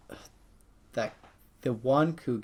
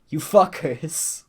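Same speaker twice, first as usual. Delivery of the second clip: louder, slow, half-joking curse; slow mock anger; 3 semitones higher, 6 dB louder, much slower than usual. Real, not acted. Bettor scolding the team that lost his money, slow mock anger. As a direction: spit it at them slowly, playfully.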